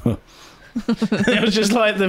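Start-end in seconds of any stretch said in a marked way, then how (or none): 0.0-0.2 short, understated puzzled grunt; mock confused huh. Guy watching the bunny get shot, mock confused huh. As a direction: imitate a baffled guy's small "huh". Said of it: "just a confused face".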